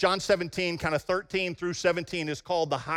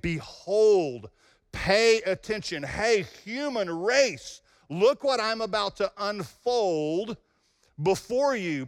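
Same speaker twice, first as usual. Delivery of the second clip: slow, lifted proclamation; voice of God calling out; 2 semitones higher, slower than usual. Retold or imitated. Preacher voicing God to humanity, slow and proclaiming. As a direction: announce it like God to the human race.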